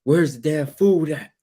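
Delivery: slow, half-hearted demanding shout; mild mock yell. Husband demanding food from wife, mild mock yell. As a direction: lightly call out for food. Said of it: "she's like".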